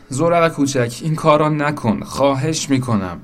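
high-pitched urgent plea; pleading. A narrator's reading. Bridge begging the little boat not to drown, pleading. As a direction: beg them to stop.

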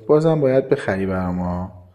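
lightly put-on childish voice; childlike tone. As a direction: coax like a child wanting treats. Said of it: "با لحن کودکانه گفت".

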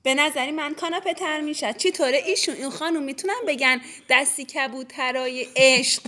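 put-on playful Isfahani accent. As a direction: lilt it the Isfahani way.

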